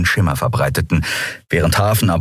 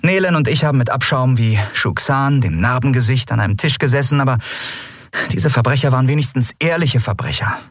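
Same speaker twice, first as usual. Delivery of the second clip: higher-pitched, indignant captain; captain griping to crew; 7 semitones higher than usual. A narrator's reading. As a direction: complain to your mates in a raised pitch. Captain complains to her crew.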